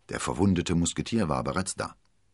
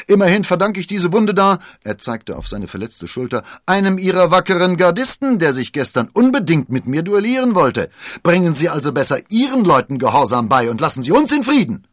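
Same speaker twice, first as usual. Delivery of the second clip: defiant musketeer; 12 semitones higher, 12 dB louder than usual. Acted. Athos defies the commander.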